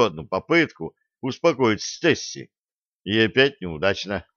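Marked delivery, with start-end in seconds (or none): none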